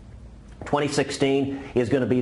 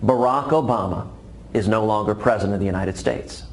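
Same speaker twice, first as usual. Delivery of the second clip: mildly frustrated. Acted. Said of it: "a little bit frustrated".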